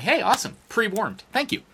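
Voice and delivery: high, friendly retold thanks; chirpy, polite acceptance; very nice. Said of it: "I'm being very nice".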